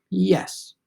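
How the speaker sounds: a whispered, serious yes. Acted. Soup answers Bump's accusation with a serious whispered yes. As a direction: answer like in class, barely voiced. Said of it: "all serious".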